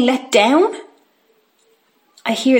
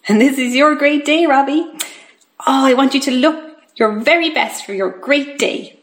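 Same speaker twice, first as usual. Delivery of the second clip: chirpy carer; 3 semitones higher than usual. Acted. Acts Tracy addressing patient Robbie.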